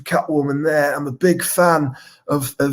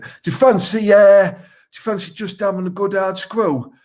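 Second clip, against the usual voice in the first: mock chat-up line; 5 semitones higher than usual. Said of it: "like, some chat up lines".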